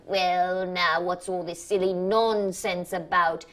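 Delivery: a light hint of talking down; only a touch of the voice for difficult children; patronizing voice. Surgeon talking down to an old lady, only lightly patronizing. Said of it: "in that voice he uses for old ladies and difficult children".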